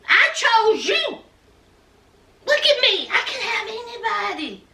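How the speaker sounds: put-on high, fast, ranting girlfriend; mock angry rant. Yara scolding drunk Jovi outside, fast high rant. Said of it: "Y'all was like".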